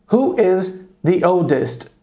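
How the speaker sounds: slow, careful repeat of the question; slow model question. Shown as a demonstration. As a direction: repeat it slowly for the class. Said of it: "Eu poderia perguntar". (pergunta modelo repetida devagar)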